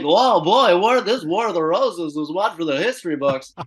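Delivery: loud, high announcer sign-off; radio host. Retold or imitated. Morning radio host wrapping the fight: loud hyped announcer. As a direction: close the segment like a hype DJ. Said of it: "they'd be like".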